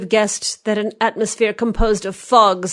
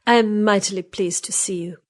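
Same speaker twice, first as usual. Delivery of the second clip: whispered, pleased; whispered pleasure; 3 semitones higher than usual. A narrator's reading. Marguerite greeting Chauvelin in a whisper.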